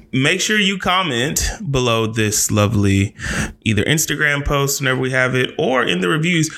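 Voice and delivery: measured, mock-formal announcer delivery; put-on host voice. Podcast host asking listeners to comment, put-on announcer voice. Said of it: "Why am I doing this voice?".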